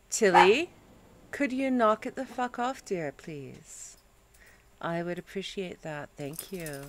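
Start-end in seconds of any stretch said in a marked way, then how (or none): 1.3-6.8 sweetly polite scolding. Real, not acted. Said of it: "that's exactly how you talk to people".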